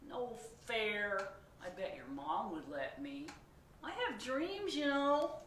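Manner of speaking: high, loud bargaining pigeon; pleading pigeon. Acted. Pigeon bargains with the reader, high and whiny. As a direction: bribe and beg like a pushy kid.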